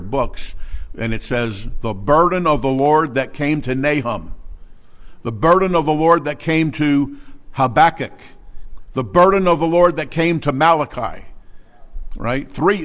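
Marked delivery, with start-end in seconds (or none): 1.8-11.2 each "burden" hit harder and louder; growing emphasis on "burden" in each phrase; stress on burden. Shown as a demonstration. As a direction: lean on "burden" every time, building. Emphatic reading of repeated verse.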